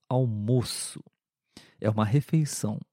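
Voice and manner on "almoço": almoço again with a closed o, softly. Shown as a demonstration. Teacher repeats the closed o in almoço. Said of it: "um pouquinho mais fechado".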